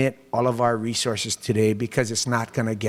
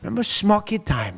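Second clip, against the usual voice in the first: nostalgic reminder; 9 semitones higher than usual. Retold or imitated. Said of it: "I said".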